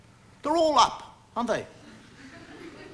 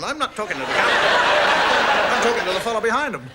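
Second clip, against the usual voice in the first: laughing aside; 3 semitones lower, 4 dB louder than usual. Real, not acted.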